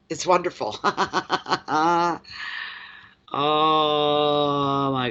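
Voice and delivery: breaking into giggles; delighted laughter at her own joke; laughing. Real, not acted.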